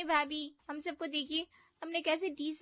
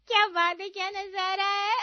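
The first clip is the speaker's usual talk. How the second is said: mocking admiration; 5 semitones higher, 8 dB louder than usual. Mocking bhabhi's heavy outfit.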